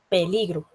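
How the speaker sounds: Peligro with the weight on PE; stress on first syllable. Shown as a demonstration. Teacher shows students the accent, stressing PE in Peligro. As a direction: put the force on the PE of Peligro. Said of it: "intensidad o fuerza al pronunciarla es P".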